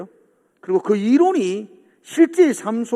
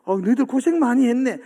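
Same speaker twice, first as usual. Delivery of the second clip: gentle apology; 3 semitones higher than usual. Retold or imitated. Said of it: "뭐 이렇게 말하는 게".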